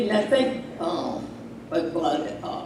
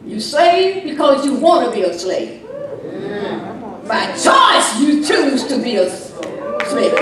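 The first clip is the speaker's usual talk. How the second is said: full-voiced sermon delivery; preaching; 3 semitones higher, 4 dB louder than usual. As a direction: preach it to the congregation.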